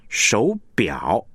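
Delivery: slow 手表 with the weight on 表; stress on second syllable. Shown as a demonstration. Teacher gives an example of back stress, 表 emphasised. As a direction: let 表 in 手表 carry the word. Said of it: "也就是后者为主".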